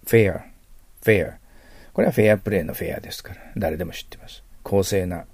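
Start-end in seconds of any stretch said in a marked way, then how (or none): 0.1-1.3 Fair with a clear lip-on-teeth f, punched; 下唇を噛むF. Shown as a demonstration. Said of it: "下唇をちょっと噛んでください". (「Fair」のFを下唇を噛んで強く)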